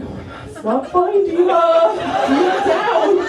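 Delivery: high-pitched paranoid freak-out, played for laughs; hammed-up anxious outburst; mock paranoid panic. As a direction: act out panicking at a friend. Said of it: "that just made me more paranoid".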